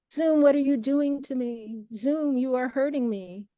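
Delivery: playful wail at the software; mock plaintive. Host pleading with Zoom, mock plaintive.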